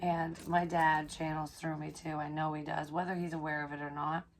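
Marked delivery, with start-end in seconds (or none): none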